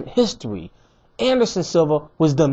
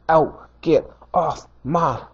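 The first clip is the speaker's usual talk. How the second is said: slow dismissive taunt; much slower than usual. Retold or imitated. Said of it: "he was like".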